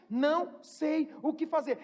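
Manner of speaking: slow, sincere admission; mean every word, slowly. Shown as a demonstration. Preacher showing an honest confession, slow and sincere.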